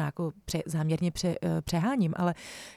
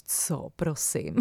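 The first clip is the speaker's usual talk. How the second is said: drawn-out, low 'excuse me?'; slow, lowered voice of someone setting a boundary; affronted question; 4 semitones lower, 4 dB quieter, much slower than usual. Acted. Coach voicing your inner reply to a boundary breach, affronted. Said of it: "tak si řekneš".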